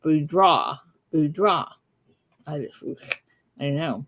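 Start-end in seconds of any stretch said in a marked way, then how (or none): 0.0-1.7 Boudreaux tried as "boo-DRAH"; practising a name. Shown as a demonstration. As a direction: repeat Boudreaux with an open "ah" ending. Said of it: "saying I'm pronouncing Mister Boudreaux's name wrong".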